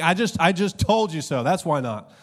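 mock weary parent snapping back; exasperated parent. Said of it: "So they're just saying".

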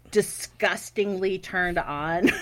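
slow, laughing through the words. Real, not acted. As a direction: giggle as you drag it out. Laughing at own confession.

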